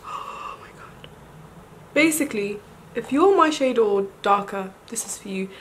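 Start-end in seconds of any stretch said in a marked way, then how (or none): 0.1-1.1 slow, soft unvoiced whisper; awed whisper. Real, not acted. Vlogger amazed at own face, slow awed whisper.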